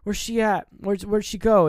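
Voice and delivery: confused. Retold or imitated. She just woke up, acted confusion. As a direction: act out baffled searching. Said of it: "confused. She's like".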